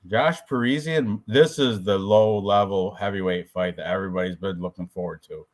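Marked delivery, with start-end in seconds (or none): 1.3-5.5 low, understated mock anticipation; sarcastic. Real, not acted. Host hyping a low-level heavyweight fight, lightly sarcastic. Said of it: "I'm being sarcastic here".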